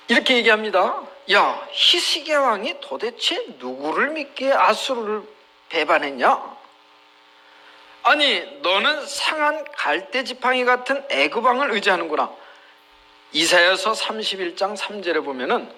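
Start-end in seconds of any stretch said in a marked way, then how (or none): 1.3-12.3 lightly acted scornful challenge; mocking taunt. Enemy envoy jeers at Hezekiah's trust in Egypt, lightly mocking. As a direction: taunt the enemy with mild derision. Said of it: "히스기야를 조롱하는 겁니다".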